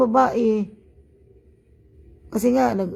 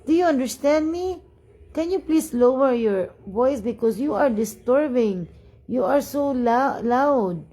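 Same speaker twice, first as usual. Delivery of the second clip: insistent complaint; 2 semitones higher, slower than usual. Retold or imitated. Retelling her confrontation over noise.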